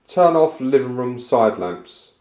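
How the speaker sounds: loud, very slow, clear command to the device. Shown as a demonstration. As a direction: spell it out slowly for the device. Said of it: "So I can also say".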